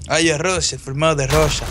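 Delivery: lightly faked, clumsy Russian accent; terrible Russian accent. Player playing a Russian patriot, bad Russian accent. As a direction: proclaim it in a poor imitation Russian accent. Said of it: "that's the worst Russian accent".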